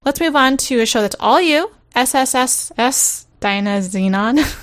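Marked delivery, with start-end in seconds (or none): 1.9-4.6 drawn-out s like a snake. Acted. Drawn-out title letters.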